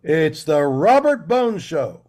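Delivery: slow, booming show intro; big announcer voice. Shown as a demonstration. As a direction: announce it like a radio host. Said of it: "Do, like, a big announcer voice".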